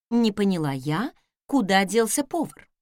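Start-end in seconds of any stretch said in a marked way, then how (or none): none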